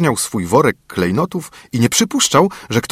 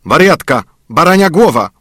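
higher, louder gruff insult; dwarf grumbling; 7 semitones higher, 6 dB louder than usual. A narrator's reading. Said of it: "burknął Karzeł".

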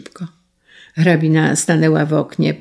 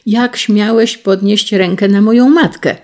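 loud, higher indignant cry; raised furious reproach; indignant outburst; 5 semitones higher, 6 dB louder than usual. Acted. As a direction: rage at the attacker. Son defends his mother.

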